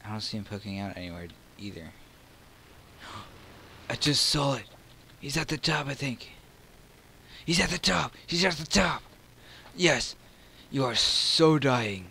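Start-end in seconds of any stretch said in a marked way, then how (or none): 3.0-3.8 sharp intake of breath; startled gasp. Real, not acted. Player spots the hidden enemy, startled gasp. 3.9-12.1 loud, high burst of excitement; excited shouting. Real, not acted. Player spots the enemy at the top, excited shout.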